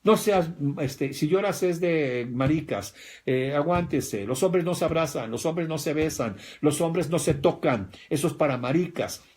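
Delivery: stern macho father. Retold or imitated. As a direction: scold the boy like a tough dad. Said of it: "te decían". (padre machista regañando, más fuerte y agudo)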